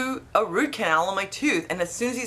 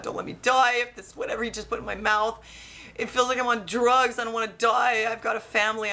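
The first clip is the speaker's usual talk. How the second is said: mildly panicked plea, raised pitch; retold panic; 4 semitones higher than usual. Patient praying not to die on drugs, mildly panicked. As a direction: retell a freaked-out plea. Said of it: "I'm, like, freaking out".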